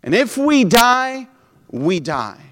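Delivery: slow, firm, rising defiance to the king; defiant declaration. Retold or imitated. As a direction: stand firm before the king. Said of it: "they told the king".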